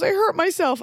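high, whiny voice of the mom; imitating mom, high and whiny; mom's whiny reply. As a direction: whimper it like a hurt mom. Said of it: "She goes".

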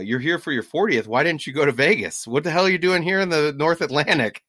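lively teasing imitation; busting chops. Scottish fisherman to birthday tourists, teasingly incredulous. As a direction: rib them in mock disbelief. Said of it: "busting our chops".

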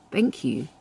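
soft, quiet "Thank you" with a small smile; thank you with a little smile. Shown as a demonstration. Demo of answering a man's compliment, soft and smiling. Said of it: "with a little smile".

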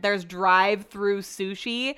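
drive-through said slowly with a rising, disbelieving lilt; surprised question. Real, not acted. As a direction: ask about drive-through in slow disbelief. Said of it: "this is where the conversation gets interesting".

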